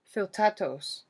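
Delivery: sharp. A narrator's reading. Achilles answers the enemy king, sharp and loud. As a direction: bite the word off hard. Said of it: "Achilles says sharply".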